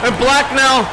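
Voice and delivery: excited. Real, not acted. Brawl erupts, shouting calls.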